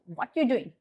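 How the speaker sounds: WHAT YOU run together before "doing"; connected casual "what you doing"; assimilation in use. Shown as a demonstration. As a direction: blend "what you" in one flow. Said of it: "ch sound".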